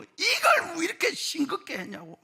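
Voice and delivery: high-pitched mock scolding; hammed-up irritated complaint; angry grandfather. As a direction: imitate an old husband griping at his wife. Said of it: "화를 내고".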